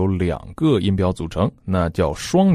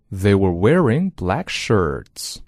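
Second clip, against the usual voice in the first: slow model reading; slower than usual. Shown as a demonstration. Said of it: "Repeat after me".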